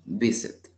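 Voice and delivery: visit with the stress on VI; stress on first syllable. Shown as a demonstration. Teacher showing the accent at the start, first-syllable stress. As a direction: VI strong, sit light. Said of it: "se lo escucho al inicio".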